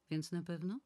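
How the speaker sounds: questioning. Acted. Asking to confirm the appointment.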